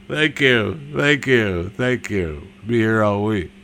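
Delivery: mock lounge-comic thanks. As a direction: lightly play the club comic signing off. Mock lounge comic taking applause.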